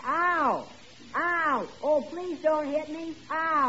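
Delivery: high, put-on cries of pain; hammed-up pleading yelps; faked pain yells. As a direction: pretend to take a beating. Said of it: "you yell kind of loud".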